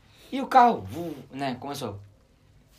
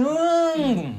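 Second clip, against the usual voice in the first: car sputter; 8 semitones higher than usual. Retold or imitated. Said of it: "aí ele foi assim".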